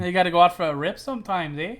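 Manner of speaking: imitating Canadian accent with eh; mock Canadian, ending on eh. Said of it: "your Canadian accent".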